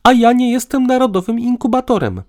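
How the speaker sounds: high, loud indignant outburst; mounting irritation. A narrator's reading. Woman refuses to be an incubator, increasingly irritated. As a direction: fire back, thoroughly irritated. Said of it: "fuknęła coraz bardziej poirytowana".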